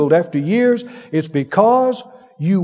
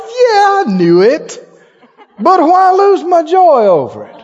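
high, loud laughing declaration; joyful shout; 8 semitones higher, 5 dB louder, slower than usual. Retold or imitated. A preacher shrugging off a slight, high joyful shout. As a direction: crow it out with joy.

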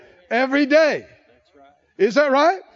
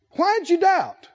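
pitched-up rebuke; 5 semitones higher, slower than usual. Retold or imitated. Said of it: "what does he say".

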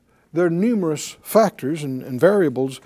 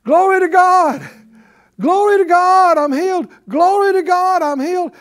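high, loud repeated cries of praise; joyful shouting; 11 semitones higher, 6 dB louder than usual. Acted. Healed man running back to Jesus, loud ecstatic shouting. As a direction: belt out the praise, overjoyed. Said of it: "and he's shouting".

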